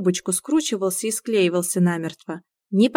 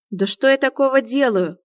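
offended; 6 semitones higher, 6 dB louder than usual. Acted. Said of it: "с обидой уточнил Илья".

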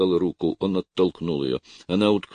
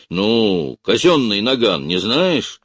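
loud, higher, irritated; irritated shout; 5 semitones higher, 7 dB louder, slower than usual. A narrator's reading. Officer scolds orderly about the revolver, irritated. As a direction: snap at the orderly. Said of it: "крикнул Бураев раздражённо".

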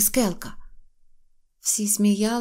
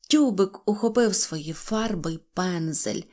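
plain reading voice

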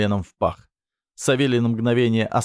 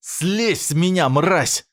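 much higher, slow, spitting rage; furious hiss; 8 semitones higher, slower than usual. A narrator's reading. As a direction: spit the insult at him. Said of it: "прошипела она".

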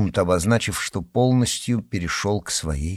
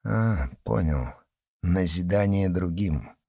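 sarcastic; 3 semitones lower, 5 dB quieter than usual. Acted. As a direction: sneer it back. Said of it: "язвительно бросил".

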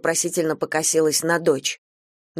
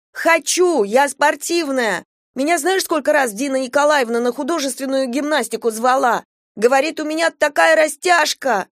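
put-on high, excited girl insisting; eager pleading; 9 semitones higher than usual. A narrator's reading. Girl insisting to mother and grandmother on gymnastics, excited and high. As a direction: pour it out, proving she is sporty.

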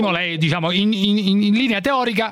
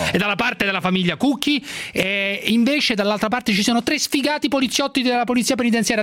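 showy game show host; 5 semitones higher than usual. Pretend. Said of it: "Fammi fare il conduttore radiofonico".

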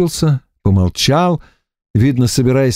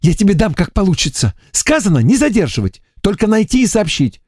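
higher mock threat, mimicking как получится; scolding lieutenant; 9 semitones higher than usual. A narrator's reading. Лейтенант одёргивает Саню, передразнивая «как получится». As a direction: tell him off with a raised voice. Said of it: "уточнила лейтенант".

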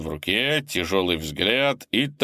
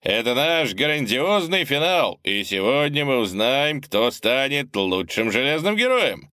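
announcer voice; 5 semitones higher than usual. Acted. Host addresses arena crowd.

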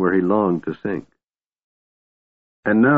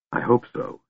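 soft, hushed confession; whispered hope; 4 semitones higher, 6 dB quieter than usual. A narrator's reading. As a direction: murmur it tenderly, well under full voice. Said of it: "she whispered".

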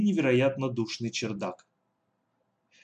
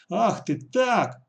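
angry retort; 8 semitones higher, 4 dB louder, much slower than usual. Acted. Villain shouts back after kick.

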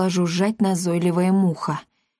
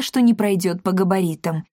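plain reading voice

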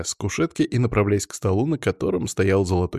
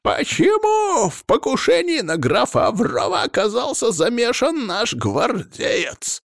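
high-pitched, forceful interrogation; irate, strained questioning; stern demand; 3 dB louder, slower than usual. A narrator's reading. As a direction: demand an answer angrily. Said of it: "строго спросил князь".

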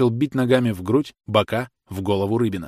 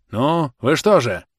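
raised, slow, reproachful question; impatient reproach; 5 semitones higher, 5 dB louder, slower than usual. Acted. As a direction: call the men to task, pitched up and louder. Official rebukes his men. (нетерпеливый упрёк, повышенным голосом)

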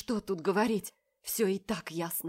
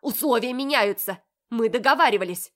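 louder shrill protest; outraged; 4 semitones higher, 10 dB louder than usual. A narrator's reading. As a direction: shout him down. Olya shouting at Marat.

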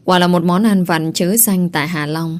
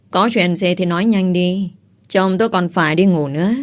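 a touch mocking. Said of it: "giọng điệu nghe xa có một chút châm chọc".

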